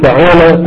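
فعالة said fa-'aa-la with the first vowel a; fa'ala with a. Shown as a demonstration. Teacher to students, فعالة with a on the first letter. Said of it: "قل".

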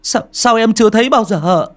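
high, loud, frightened stammer; trembling. A narrator's reading. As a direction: stutter fearful questions, pitch climbing. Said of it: "Ông Chiến cũng run rẩy".

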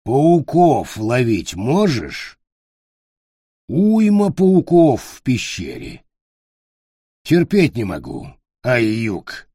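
slow goblin question; lightly voiced goblin, curious; slow creature voice. Goblin voice in story.

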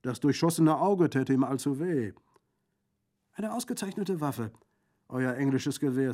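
loud, high, lively bandit voice; jovial bandit, admiring. Acted. Bandit praises the lieutenant's rifle, jovial and loud. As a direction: crow over the shooting with booming gusto.

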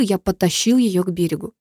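ordinary delivery

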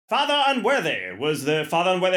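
lightly voiced top-hat gentleman; British character-actor imitation; Jim Broadbent type. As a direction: play a touch of the pompous announcer. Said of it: "top hat Jim Broadbent guy going".

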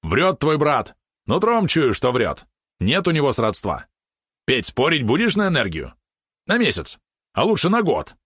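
high, insistent yappy voice; excited little accuser. Acted. Small companion accuses the brother and pushes a bet, excited. Valeron's lines voiced in narration.

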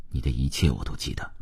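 low, soft and sincere; heartfelt confession. A narrator's reading. He blurts his true feelings to her, low and soft. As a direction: let it slip out softly from the heart. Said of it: "心里话情不自禁地脱口而出".

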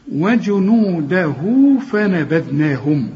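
وجنوده slow, final u held two beats into فنبذناهم; connected, lengthened vowel. Shown as a demonstration. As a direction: link وجنوده to فنبذناهم with a long "hu". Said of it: "الواو دي حركتين".

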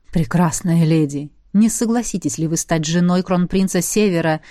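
low, hypnotic and persuasive. Acted. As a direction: cast a spell with the voice. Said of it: "постарался придать гипнотическую силу".

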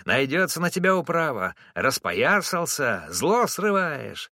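high-pitched wail, dragging the last words out slowly; yelling across the yard. A narrator's reading. Knocked-down driver howls for the whole yard, shrill and accusing. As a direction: bawl it so the whole yard hears. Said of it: "завопил на весь двор".

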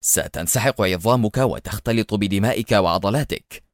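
understated, unbothered taunting; offhand sarcastic menace; mocking nonchalance. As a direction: explain it calmly with a touch of scorn. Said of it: "وهو يقول في استهتار ساخر".

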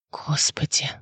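breathy shocked whisper; Dronго whispering on hearing the boy died. A narrator's reading. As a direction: whisper it in horror. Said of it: "прошептал Дронго".

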